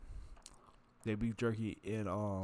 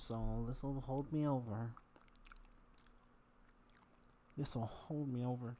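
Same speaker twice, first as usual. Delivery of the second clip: mock resigned self; 2 semitones higher, slower than usual. Imitating himself settling for food.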